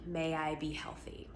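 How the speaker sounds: soft whispered wish; a hushed wish to yourself. Shown as a demonstration. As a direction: breathe the phrase as a whisper. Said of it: "So for instance".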